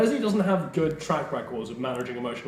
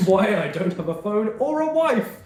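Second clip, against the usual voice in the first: storyteller voice; 6 semitones higher than usual. Pretend. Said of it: "my friend, let me tell you".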